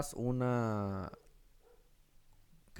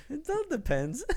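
laughing; 4 dB louder, slower than usual. Real, not acted. Laughing at his own spy joke.

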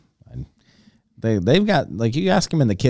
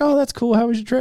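high-pitched imitation of a friendly shop worker; high, chatty retold small talk; retold sandwich maker; 12 semitones higher, faster than usual. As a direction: voice her lightly, pitched well up. Voicing sandwich maker in story.

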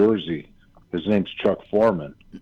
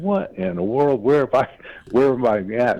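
amazed; 7 semitones higher than usual. Retold or imitated. Stunned at the Miami scene.

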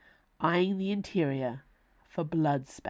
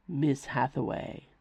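deep rich voice; 3 semitones lower than usual. Acted. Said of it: "said that deep, rich voice".

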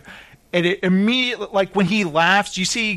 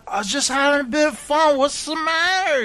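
higher, mock-innocent shrug of a voice; innocent drunk excuse; 9 semitones higher than usual. Drunk Travis brushes off the crew after the slap, innocently. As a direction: play it off like nothing happened.

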